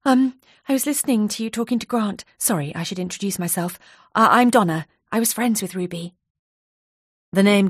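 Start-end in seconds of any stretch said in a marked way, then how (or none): 0.0-6.2 lightly higher, hurried nervous voice; nervous colleague catching her breath; breathless nervous woman. Acted. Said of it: "She spoke breathlessly".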